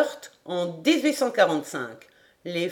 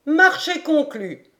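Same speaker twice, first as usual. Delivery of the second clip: higher, bright-voiced eager acceptance; eager Paganel; 8 semitones higher, 3 dB louder than usual. A narrator's reading. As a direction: accept the bet with relish. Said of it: "À l'instant, Major".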